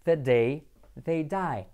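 The day they die at a slow pace; slow twister. Shown as a demonstration. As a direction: say the tongue twister slowly. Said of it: "tongue twister". (trabalenguas lento)

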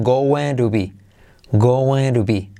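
going to be with the T as a soft R, goeru bi; going to be, fast with tapped T. Shown as a demonstration. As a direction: flap the T in going to be. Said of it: "esa T se convierte en R suave".

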